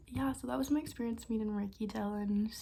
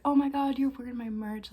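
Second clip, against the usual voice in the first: imitating a thrilled greeting, higher and louder at first; retold delight; 3 semitones higher, 6 dB louder than usual. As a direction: gush it like a delighted star, retold. YouTuber delighted by fan's merch.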